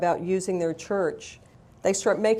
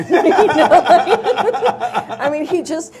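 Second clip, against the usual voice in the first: laughing through the words, louder; 8 semitones higher, 9 dB louder, much slower than usual. Real, not acted. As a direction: breaks into real laughter at the memory. Laughing at priest's witty reply.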